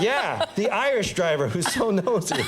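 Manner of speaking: pointed remark disguised as a script line; pretend line-reading. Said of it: "pretend like I was running lines".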